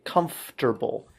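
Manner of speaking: comfortable said carefully as KUMF-ter-bul; careful pronunciation. Shown as a demonstration. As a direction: enunciate "Comfortable" so the FT is heard. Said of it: "listen carefully".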